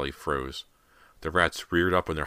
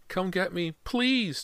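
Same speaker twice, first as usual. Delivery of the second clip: put-on high-pitched little boy's plea; begging child; slower than usual. A narrator's reading. Trapped boy begs to be fetched, high pleading. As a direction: beg upward, climbing on the last word. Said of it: "James begged".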